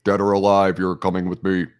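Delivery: stiff, robotic movie-cop delivery; movie quote voice. Pretend. Answers with the RoboCop line.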